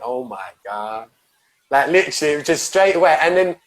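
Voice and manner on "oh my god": much softer and lower, slow relieved sigh of words; relieved breath out. Retold or imitated. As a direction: let it out slowly like the panic just left. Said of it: "She went".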